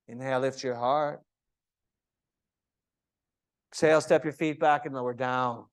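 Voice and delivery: long pauses between calm cues; spacious yoga cues. Shown as a demonstration. Teacher showing students how silence sounds in cueing. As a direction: leave long silences between each cue. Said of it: "I have a lot of silence there".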